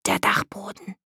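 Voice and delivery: hushed, secretive whisper. A narrator's reading. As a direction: whisper the realisation. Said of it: "flüsterte Daka". (geheimnisvoll geflüstert)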